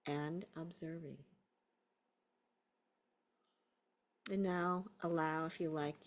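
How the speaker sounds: unhurried guiding voice with long pauses; guided meditation. Real, not acted. Teacher settling a class into a body scan, guided meditation. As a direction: ease them into a body scan.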